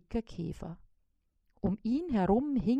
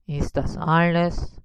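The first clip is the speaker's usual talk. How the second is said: lower, lightly voiced spider; calm, a little lower; 5 semitones lower, 3 dB louder than usual. A narrator's reading. Spider ready to phone the order, low calm voice. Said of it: "sagte er".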